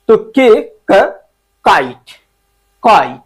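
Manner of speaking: क slow, then काइट said twice; phonic sound demo. Shown as a demonstration. Teacher models क sound for students. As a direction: stretch क before काइट. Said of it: "फिर उसके बाद के आ रहा है के".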